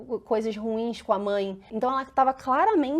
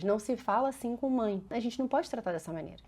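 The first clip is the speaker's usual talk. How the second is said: much softer, firm gentle rule; calm mantra; 7 dB quieter than usual. Shown as a demonstration. Mother reciting the family mantra to her child, much softer. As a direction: repeat the house rule calmly. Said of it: "Eu falo isso lá em casa várias vezes".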